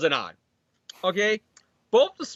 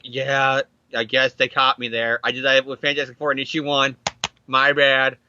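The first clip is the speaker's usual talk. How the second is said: sheepish low mumble; 6 semitones lower than usual. Retold or imitated. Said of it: "he's like".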